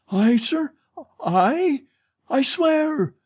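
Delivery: put-on old concierge, voice leaping high in panic; squeaky, frantic denial from an old woman; shrill old woman protesting. Madame Giry, accused by the manager, protests in a high panic.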